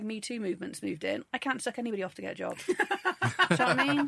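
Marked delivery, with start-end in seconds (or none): 2.6-4.1 laughing through the question; laughing at her own cheeky joke. Real, not acted. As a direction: giggle it out, louder.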